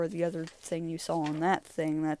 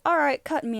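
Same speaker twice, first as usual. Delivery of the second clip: showman; 8 semitones higher, 6 dB louder than usual. Acted. Magic Man voiced in story.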